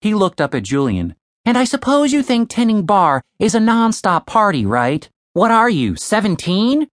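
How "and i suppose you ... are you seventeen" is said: raised, mocking sneer at a kid; Tim's voice, scoffing. Tim sneering at young Julian, mocking. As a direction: talk down to him like a know-it-all.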